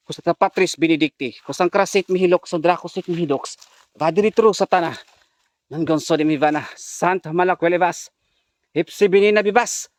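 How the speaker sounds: hammed-up pseudo-Latin incantation; lightly chanted fake Latin prayer; mock exorcism prayer. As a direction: recite it like a priest casting out.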